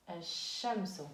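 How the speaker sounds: Ash-shamsu with the L silent and the sh doubled; lam not pronounced. Shown as a demonstration. Teacher repeats the model word for students, lam silent. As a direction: say Ash-shamsu as a-shshamsu, no L sound. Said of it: "on dit ash-shamsu".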